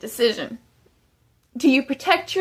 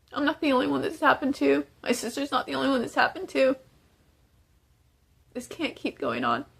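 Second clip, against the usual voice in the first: real tears breaking through the plea; holding back tears; 4 dB quieter than usual. Real, not acted. Prisoner pleading for help, voice breaking into real tears. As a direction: voice choking up, fading to near silence at the end. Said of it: "I told myself I wasn't gonna cry".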